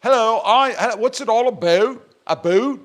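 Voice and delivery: put-on playful Minnesota accent teasing his wife. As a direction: poke fun with a broad Minnesota accent. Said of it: "they talk like you in Minnesota".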